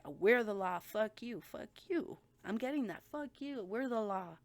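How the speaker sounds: loud, taunting mock yell at the cop; mock screaming kid. Kid screaming at the officer, a loud mock yell. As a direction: shout it like a cocky teen. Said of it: "screaming like".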